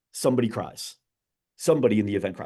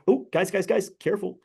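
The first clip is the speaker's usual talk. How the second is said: higher, pointed mock caution to the kids; fake-polite nudge meant for mom to hear; passive-aggressive warning; 7 semitones higher than usual. Man at the DMV warning the kids for mom's benefit, passive-aggressive. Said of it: "passive-aggressive sounds".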